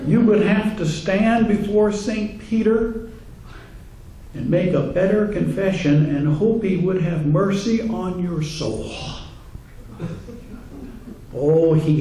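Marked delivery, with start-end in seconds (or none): 0.1-8.9 Father Clancy preaching. Retold or imitated. Priest warning his congregation about insincere confession, mock preaching. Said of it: "a little sample, and you'll be critical too".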